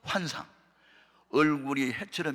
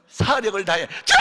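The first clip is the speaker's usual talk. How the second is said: retold yell; 3 semitones higher, 6 dB louder than usual. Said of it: "나도 내 소리가 놀랬어".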